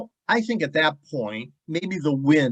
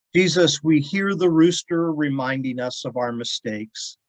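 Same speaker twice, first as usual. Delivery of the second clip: prayer. Acted. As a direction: speak it as an opening prayer. Leads a prayer.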